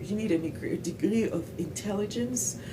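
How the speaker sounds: put-on hesitant learner's English with a French accent; French-accented "degree of intelligence", questioning rise. Recalling their puzzled self, French-accented English. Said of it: "Et donc, je me disais".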